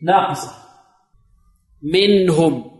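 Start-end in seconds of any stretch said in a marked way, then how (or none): 1.8-2.7 منهم with the nun given its middle length; measured nun. Shown as a demonstration. Teacher modelling for students, measured nun. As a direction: let the nun in منهم sound briefly, unbounced. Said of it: "نعطيها قدرها من التوسط".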